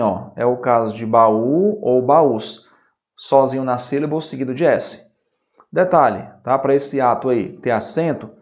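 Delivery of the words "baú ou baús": baú and baús with a long, separate ú; baú ou baús, slowly, stressing the ú; hiatus shown. Shown as a demonstration. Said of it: "Isso vale para o U também".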